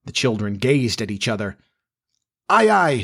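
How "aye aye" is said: cheery high-pitched sailor's reply; blithe. A narrator's reading. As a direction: answer the order lightly, pitch up. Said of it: "said Jukes blithely".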